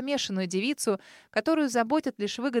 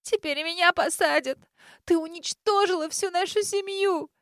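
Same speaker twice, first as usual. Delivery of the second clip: higher and louder, bitter and accusing; spiteful, hissing anger; 8 semitones higher, 4 dB louder than usual. A narrator's reading. Grace turns on her sister in the cell, angry. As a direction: spit the words at her sister in fury. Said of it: "зло процедила".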